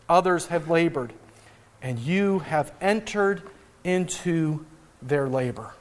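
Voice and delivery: measured reading of the Gospel passage; scripture reading. Acted. Pastor reading scripture to the church, measured. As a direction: read the passage to the congregation.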